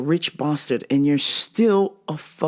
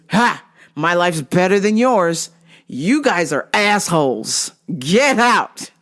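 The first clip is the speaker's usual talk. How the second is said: slow, emphatic insults ending in a mock yell; mock contempt; slower than usual. Rude practitioner insulting departing clients, mock angry. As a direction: imitate him scornfully ordering them out.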